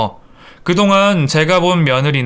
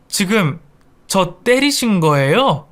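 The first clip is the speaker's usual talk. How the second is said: higher, affronted question; stunned disbelief; 5 semitones higher than usual. Acted. Slapped daughter-in-law confronting mother-in-law, stunned. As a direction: ask in shocked disbelief.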